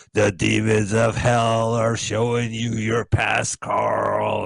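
slow, drawn-out doom pronouncement; ominous demon messenger. Acted. Retelling the horror film to co-host, mock-ominous. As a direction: intone it slowly like a movie horror. Acting out film's demon revelation.

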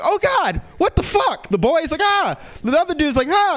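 high, loud panicked yelps; panicked kids. Retold or imitated. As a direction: squeal like terrified teen burglars. Kids freak out.

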